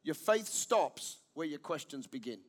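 preacher stressing key line; solemn emphasis. Shown as a demonstration. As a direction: let the point land softly. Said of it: "I'm gonna make a statement here".

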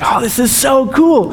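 high-pitched imitation of a thrilled boy; freaking out excitedly. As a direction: gush like someone completely freaking out. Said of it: "completely freaking out".

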